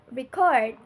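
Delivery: slow record, stressed re-CORD; stress on second syllable. Shown as a demonstration. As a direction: repeat record as the verb, leaning on CORD. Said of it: "with the stress on the second syllable".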